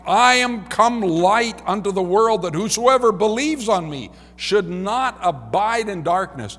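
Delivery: high, ringing scripture proclamation; crying out. Acted. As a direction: proclaim it to the whole crowd.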